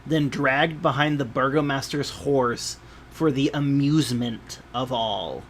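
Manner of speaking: measured game master storytelling; scene narration. A narrator's reading. Game master describing a festival procession to players, measured narration. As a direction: read the scene out with deliberate phrasing.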